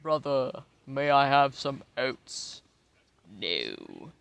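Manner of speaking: hammed-up hungry creature pleading; begging animal voice. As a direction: beg for oats like a silly starving creature. Voicing an animal begging for oats.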